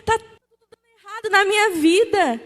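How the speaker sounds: a hint of a worn-out complaint to God; desperate believer. Believer complaining to God, lightly voiced despair.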